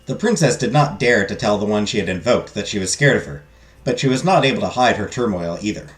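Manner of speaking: measured storybook narration; story narration. Acted. Narrator describes the strange fairy godmother, storytelling.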